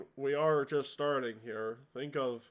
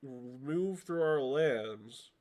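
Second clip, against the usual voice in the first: slow, deliberate repeated demand; lightly voiced ruler drawing out the question; crowned kobold; slower than usual.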